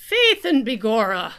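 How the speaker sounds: laughing mock Irish leprechaun; hammy Irish leprechaun, laughing. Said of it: "I do not sound like that".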